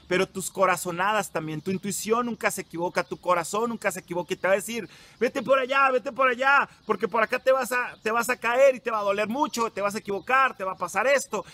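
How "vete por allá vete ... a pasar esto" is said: heart shouting. Retold or imitated. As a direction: shout it like the heart begging you to go. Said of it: "tu corazón te está gritando". (el corazón gritando, agudo y fuerte)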